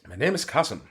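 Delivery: put-on a hammy Turkish accented villain. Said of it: "like, Turkish accent".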